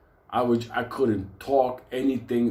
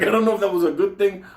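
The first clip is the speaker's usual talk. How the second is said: laughing disbelief; 8 semitones higher, 5 dB louder, faster than usual. Retold or imitated. Laughing at being told he's like his father.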